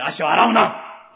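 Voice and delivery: blunt command. Shown as a demonstration. Preacher rephrasing Peter's refusal as a slow blunt command. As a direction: spell out the order behind the politeness. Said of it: "命令口調で、".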